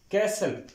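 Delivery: कैसल with the T left silent. Shown as a demonstration. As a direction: say कैसल with no T sound at all. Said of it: "यहाँ पे टी silent होगा". (कैसल में टी silent)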